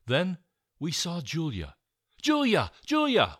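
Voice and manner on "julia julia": high, loud repeated calls; trapped kids screaming to their friend; screaming a name. A narrator's reading. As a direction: scream her name across the barrier. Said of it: "we screamed".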